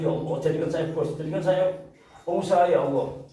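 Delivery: high, mock-sobbing plea climbing as it goes; retold tearful prayer. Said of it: "sampai nangis". (menirukan doa merengek sambil menangis)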